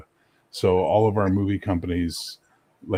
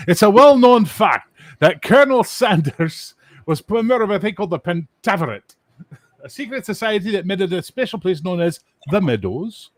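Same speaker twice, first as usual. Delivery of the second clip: movie voice; 10 semitones higher, 7 dB louder than usual. Retold or imitated. Quoting movie narration.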